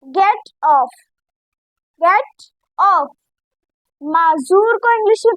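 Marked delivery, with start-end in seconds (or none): 0.0-3.1 teacher shows the e sound in get; e sound shown. Shown as a demonstration. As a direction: get said with a short e, not ee. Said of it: "हम इसकी आवाज निकालेंगे ए की".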